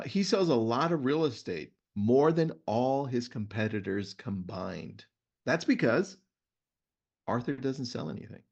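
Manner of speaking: reading a book passage to listeners; host reading a book excerpt to his guest; reading aloud. Shown as a demonstration. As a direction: read it out like a storyteller. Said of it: "Let me read to you a story".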